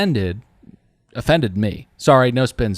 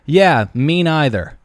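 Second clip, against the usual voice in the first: snarky jab; 5 semitones higher, 5 dB louder, slower than usual. Retold or imitated. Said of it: "And I go".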